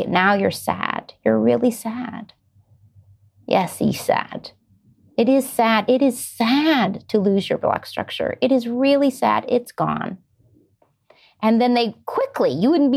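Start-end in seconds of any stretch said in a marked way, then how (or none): 0.0-2.3 slow, gentle acted validation; unhurried, naming the child's feeling; empathetic parent. Parent reflecting a tearful child's sadness, slow and empathetic. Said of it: "And you say". 3.5-10.2 slow, emphatic acted commiseration; empathetic parent. Parent consoling a child who lost a block structure, slow and empathetic. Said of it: "And you say".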